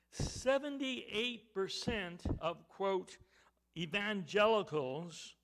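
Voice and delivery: slow, weighty preaching with punched key words; emphatic preaching. Real, not acted. Preacher revealing a study to the congregation, emphatic preaching. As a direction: drive each phrase home, pausing between them.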